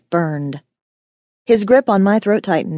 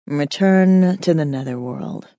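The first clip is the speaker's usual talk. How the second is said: calm, slow, direct order; level command; 3 semitones lower than usual. Acted. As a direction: command without raising the voice. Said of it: "Akil ordered, his tone level and direct".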